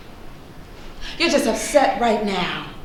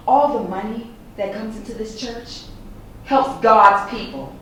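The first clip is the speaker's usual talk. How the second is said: solemn statement. Acted. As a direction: say it like gospel truth. Mother's original solemn statement.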